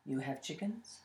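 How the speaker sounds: low, soft, unhurried rabbi; old rabbi voice. Acted. Wise rabbi voiced, low, quiet.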